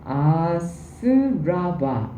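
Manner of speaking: 아스라바 very slowly, each syllable drawn out; Sanskrit pronunciation. Shown as a demonstration. Teacher introduces the Sanskrit term, 아스라바 slowly drawn out. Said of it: "산스크리트어는".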